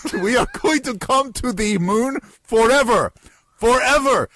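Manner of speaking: put-on loud, hammy Russian accent. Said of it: "I'm going to try it now".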